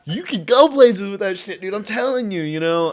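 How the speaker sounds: imitated loud, high urging; retold emphatic praise. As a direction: insist loudly as the impressed singer. Retells singer's emphatic praise.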